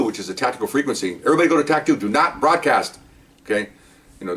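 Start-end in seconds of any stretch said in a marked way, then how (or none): 1.2-3.0 retold radio order. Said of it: "So I get on the radio".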